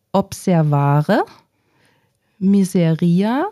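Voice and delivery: slow careful reading aloud. Shown as a demonstration. Pupil reading vocabulary cards aloud to her teacher, slow and careful. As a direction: read each Latin word slowly, one by one. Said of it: "Sie lesen die einfach mal vor".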